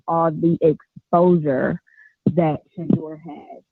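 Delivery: muffled like through a wall; speaking away from the phone. Real, not acted. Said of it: "You sound muffled".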